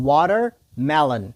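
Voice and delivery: watermelon broken into "water", pause, "melon"; slow, split word. Shown as a demonstration. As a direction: say watermelon slowly in two separate parts. Teacher splits word for repetition. (watermelon ورو، په دوو برخو کې)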